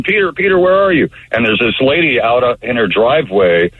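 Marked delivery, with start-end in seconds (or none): 0.0-1.1 high retold yell of the name. Owner yelling for his wolf in the street, high mild yell. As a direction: call out for the lost wolf. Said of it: "yelling his name".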